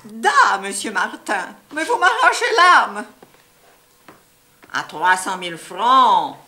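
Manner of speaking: hammed-up Russian accent on the phone; mock Russian accent with a laugh in it. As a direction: play a fake Russian dealer. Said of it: "lui, il prend l'accent russe".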